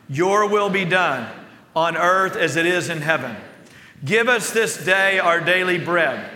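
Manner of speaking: slow, measured recitation of the Lord's Prayer; steady liturgical prayer voice; recited prayer. Acted. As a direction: say it like a reverent church recital.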